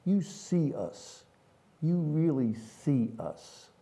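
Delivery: slow, high Southern drawl; Southern accent. Retold or imitated. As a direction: quote her slowly in a Southern accent. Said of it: "she had this delightful Southern accent".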